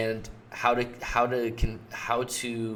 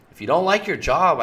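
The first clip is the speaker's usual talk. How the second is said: eager pushy offer; 7 semitones higher, 7 dB louder than usual. Acted. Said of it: "He says".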